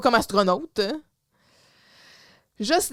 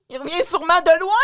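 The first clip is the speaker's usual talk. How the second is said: mock shout; 5 semitones higher, 6 dB louder, faster than usual. Replays the boss's rant.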